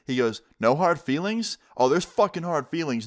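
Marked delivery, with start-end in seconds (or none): 0.6-1.6 NO HARD FEELINGS thrown back higher as a question; incredulous echo. Retold or imitated. Angry dad throws words back. 1.8-3.1 higher-pitched imitation of an angry dad; indignant retort. Acted angry dad rejects the apology.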